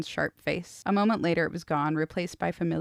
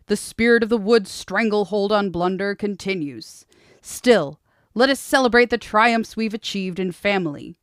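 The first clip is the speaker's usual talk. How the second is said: commanding prince; 3 semitones higher, 8 dB louder than usual. Acted. Prince's speech to the hall.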